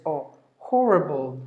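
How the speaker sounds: the "Oh" in HORRIBLE said with rounded lips. Shown as a demonstration. Teacher demonstrating lip rounding, rounded-O pronunciation. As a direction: give the vowel alone, then HORRIBLE, round and falling. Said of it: "rounding the lips like this".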